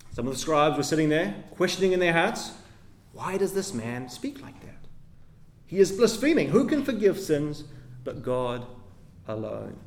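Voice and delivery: measured, solemn reading of the passage; scripture reading. Acted. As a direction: read it out like Scripture before the sermon. Re-reads the scribes' verses.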